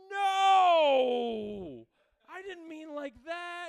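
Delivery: very high, very loud horrified yell; mock panicked shout. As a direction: scream it, dragging the protest out. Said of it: "and she's like".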